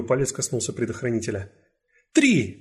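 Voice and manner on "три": loud, high shout. Acted. Detective shouts the count before storming in. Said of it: "крикнула Францискович так громко".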